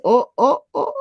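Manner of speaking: high put-on startled oh; mock gasp. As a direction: act startled at your own reflection.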